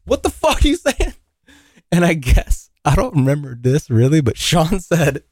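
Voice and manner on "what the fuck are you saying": high-pitched mock yell with a laugh inside; indignant challenge, half laughing; retold angry yell. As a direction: imitate an outraged kid, voice pitched way up. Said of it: "this kid comes out of his garage yelling at me".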